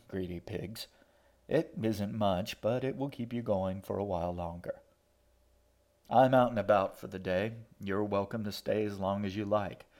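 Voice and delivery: a light take on the shaggy man, dry and mocking; shaggy man imitation. Assam reading the host's note aloud, lightly imitating him. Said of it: "his best imitation of the shaggy man's voice".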